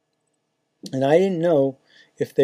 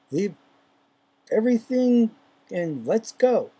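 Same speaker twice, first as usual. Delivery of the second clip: urgent call; 7 semitones higher than usual. Retold or imitated. Inner urging, called out.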